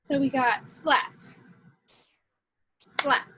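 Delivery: slow, clear demo of splat; syllable demo. Shown as a demonstration. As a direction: say splat slowly for counting. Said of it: "start with splat".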